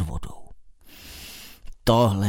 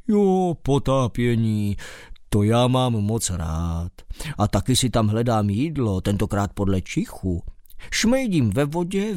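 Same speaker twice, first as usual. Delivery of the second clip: mole's voice. Acted. Mole character voice.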